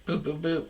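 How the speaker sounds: high little boops; imitated button beeps. Dentist sets the laughing gas, high mimicked beeps.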